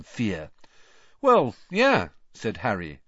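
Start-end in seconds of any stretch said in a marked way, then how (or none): 1.2-2.1 high, airy, offhand reply; casual. A narrator's reading. Nephew admitting he writes to godfather, casually. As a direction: toss it off as if obvious.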